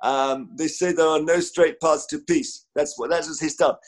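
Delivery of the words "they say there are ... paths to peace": staccato reporter style. Retold or imitated. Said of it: "he had a particular staccato style".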